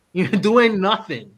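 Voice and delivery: slow, laughing jab at doing nothing. Real, not acted. Host teasing the guest about doing nothing, laughing slowly.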